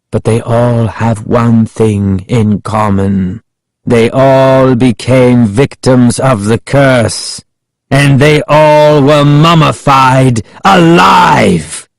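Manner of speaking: slow, building menace; Ahmed's menacing reveal. A narrator's reading. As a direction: draw it out, building to the last word. Villain reveals the victims' fate.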